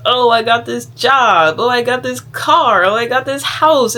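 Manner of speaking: bragging mom. Retold or imitated. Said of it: "They're constantly trying to be like".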